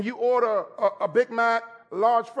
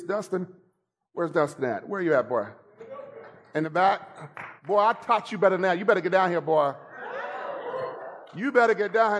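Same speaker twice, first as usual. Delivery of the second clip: calling out to son; 2 semitones lower than usual. Real, not acted.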